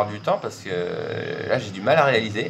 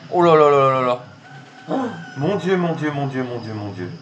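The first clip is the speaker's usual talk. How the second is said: overwhelmed; 4 semitones higher than usual. Real, not acted. Overwhelmed by big win.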